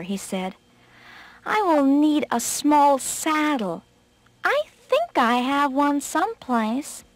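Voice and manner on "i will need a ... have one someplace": slow, higher storybook rabbit; feigning rabbit. Acted. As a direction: draw it out as a rabbit playing helpless. Rabbit feigning weakness to trick tiger.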